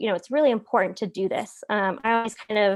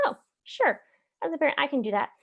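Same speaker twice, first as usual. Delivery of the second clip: higher, easy "sure, I can do that"; breezy confident parent; 6 semitones higher, faster than usual. Retold or imitated. Parent agreeing breezily that positive reflections are easy. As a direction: brush it off as no problem.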